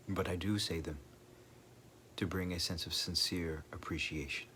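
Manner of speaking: measured meditation delivery with long pauses; guided meditation. Acted. Speaker leading listeners in reflection on impermanence, guided meditation. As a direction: reflect gently, leaving long silences between phrases.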